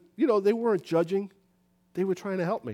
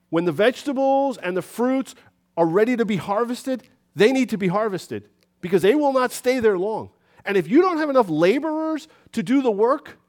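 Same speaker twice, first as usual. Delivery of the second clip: louder, higher preacher's cry; loud preaching; 4 semitones higher, 7 dB louder than usual. Real, not acted. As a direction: preach it out over the whole church. Preaching builds to full volume.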